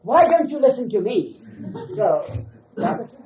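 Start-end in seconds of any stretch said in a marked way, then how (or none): 0.0-1.4 higher and louder, demonstrating an angry shout; mock shout. Baba demonstrating a shout at the man beside him, louder. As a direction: show how angry people yell. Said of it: "and I just shout at him".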